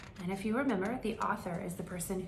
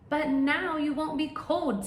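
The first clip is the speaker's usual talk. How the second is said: bird voice; 8 semitones higher, 6 dB louder than usual. Acted.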